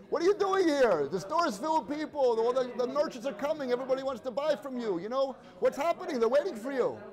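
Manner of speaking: exasperated mock yell at the husband; screaming at him. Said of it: "She starts screaming at him".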